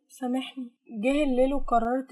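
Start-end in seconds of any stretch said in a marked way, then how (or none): 0.1-0.7 soft, hushed apology; low voice. Acted. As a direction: say it quietly, almost to oneself. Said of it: "وقالت بصوت واطي". (بصوت واطي)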